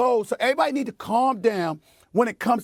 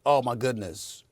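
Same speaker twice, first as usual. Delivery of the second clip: mocking critics; 12 semitones lower, 4 dB quieter, faster than usual. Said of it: "people acting like".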